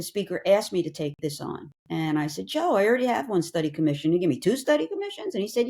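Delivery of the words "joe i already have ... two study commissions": higher-pitched disbelieving question; retold incredulous protest. Lawmaker retelling her reply to the speaker's request, incredulous. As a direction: protest in mock disbelief, pitch climbing to the end.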